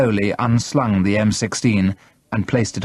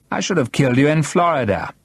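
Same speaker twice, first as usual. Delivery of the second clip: mildly friendly, higher-pitched menace; oddly friendly; 6 semitones higher than usual. A narrator's reading. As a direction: make a threat sound casually amiable. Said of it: "in an oddly friendly voice".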